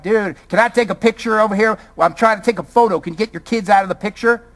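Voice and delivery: lightly imitated Southern accent. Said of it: "with a southern accent".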